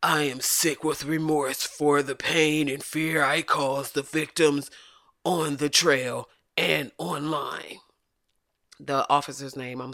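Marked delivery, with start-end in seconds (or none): 0.1-7.8 a hint of a slow, stiff apologetic old man; mock remorseful apology voice. Mocking the cyclist's apology, slow and stiff. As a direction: read the apology like a sheepish retiree. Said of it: "That's why I gave him that voice".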